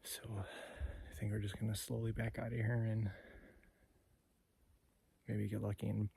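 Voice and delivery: quiet, hushed narration; wildlife watching whisper. Real, not acted. Hunter talking quietly in thick cover.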